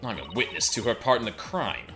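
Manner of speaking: lightly voiced Solid Snake style; a hint of Solid Snake, soldier-like. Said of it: "giving her the Solid Snake voice".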